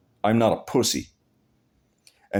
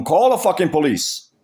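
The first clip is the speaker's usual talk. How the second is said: retold taunt; 6 semitones higher than usual. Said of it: "I told him".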